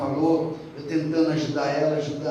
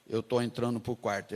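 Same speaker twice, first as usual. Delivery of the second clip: imitating brother Alvani; 5 semitones lower, 5 dB quieter than usual. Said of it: "é o jeitão dele".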